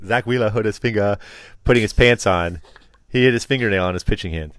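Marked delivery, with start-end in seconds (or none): 0.0-2.6 lightly imitated Austrian accent; Schwarzenegger. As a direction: echo it with a hint of mock Austrian accent. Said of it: "saying it like Schwarzenegger".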